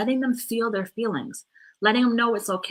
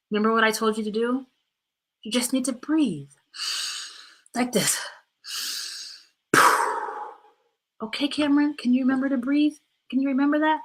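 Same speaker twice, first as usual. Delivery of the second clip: put-on three-year-old Corey; 2 semitones higher than usual.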